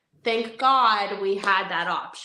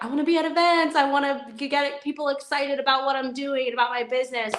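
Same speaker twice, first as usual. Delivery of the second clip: higher, keen voice of an aspiring host; raised pitch, rolling enthusiasm; eager self-talk; 5 semitones higher, 3 dB louder, faster than usual. Acted. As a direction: voice someone fired up about their business. Voicing an eager would-be event host.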